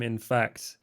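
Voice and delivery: lightly voiced London accent, charming; British accent. Sean greets Candy with a light British accent. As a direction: Sean plays the smooth Londoner. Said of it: "born and bred London, mate".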